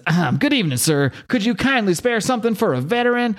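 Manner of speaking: polite panhandler. Retold or imitated. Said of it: "He says".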